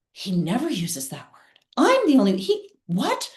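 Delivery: shocked disbelief. Retold or imitated. Shocked at ex's word.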